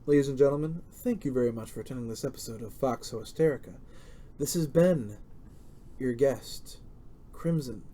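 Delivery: fighting game announcer, quick and dropping. Shown as a demonstration. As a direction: announce it like closing a show. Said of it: "let me say that in my, my announcer voice".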